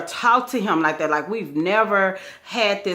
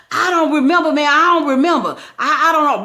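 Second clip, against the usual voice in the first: mock dazed guy; 8 semitones higher, 6 dB louder than usual. Man claims no memory.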